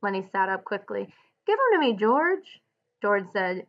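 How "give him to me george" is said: loud, high, insistent plea; loud demand. Acted. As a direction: demand it back loudly. Lenny demands the pup back.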